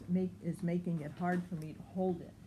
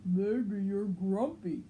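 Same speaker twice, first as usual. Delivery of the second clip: lightly voiced Norman, a bit louder; Norman suggesting; 5 dB louder than usual. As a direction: offer it like a helpful neighbour. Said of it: "suggested Norman".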